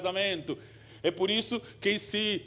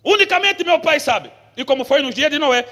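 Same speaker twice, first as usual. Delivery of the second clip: scripture reading; 5 semitones higher, 10 dB louder than usual. Acted. Reads scripture aloud loudly.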